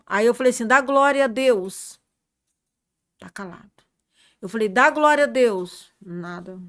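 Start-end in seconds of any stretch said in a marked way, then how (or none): 0.7-2.0 slow, loud insistent urging; urging loudly. Retold or imitated. Urging the revived man to praise God, slow loud urging. 4.7-5.9 slow, loud insistent urging; urging loudly. Retold or imitated. Urging the revived man to praise God, slow loud urging.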